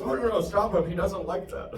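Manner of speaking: high, loud alarmed "stop him"; panicked dog owner. Retold or imitated. Dog owner begging a stranger to stop his dog, high and alarmed. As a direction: squeal it out like a worried owner. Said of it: "And the guy goes".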